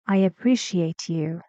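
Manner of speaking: "I appreciate you" settling down on "you"; falling intonation. Shown as a demonstration. Teacher reads an example, falling intonation on "you". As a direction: let the end of "appreciate you" drop. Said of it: "Falling intonation".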